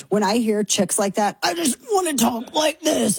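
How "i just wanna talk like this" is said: high gravelly wrestler growl; gruff macho wrestler voice; Randy Savage voice. Pretend. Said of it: "I feel like I wanna talk like Randy Savage".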